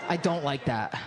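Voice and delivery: usual speaking voice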